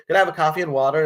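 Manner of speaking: put-on American accent. Customer asking the waiter for a drink, mock American accent. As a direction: play the American customer ordering. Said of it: "my American accent is brilliant".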